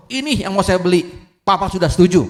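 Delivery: high, loud exultant declaration; triumphant. Acted. Son picks his car from the brochure, triumphant high declaration.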